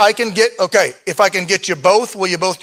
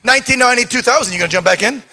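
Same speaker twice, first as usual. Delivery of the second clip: auctioneer; 3 semitones higher than usual. Real, not acted. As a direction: shout the bids across the room. Auction bid calling.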